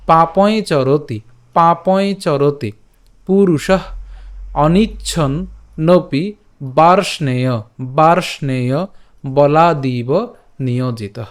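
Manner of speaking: slow recitation, phrase by phrase with pauses; pronunciation demo. Shown as a demonstration. Teacher recites for learners to copy, slow careful pronunciation. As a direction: draw out long vowels in পাপই চরতি and অনিচ্ছন্নপি. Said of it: "উচ্চারণ কেমন হবে".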